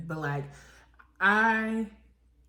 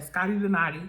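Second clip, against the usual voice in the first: quoting her; 4 dB louder, faster than usual. Retold or imitated. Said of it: "That's literally what she said".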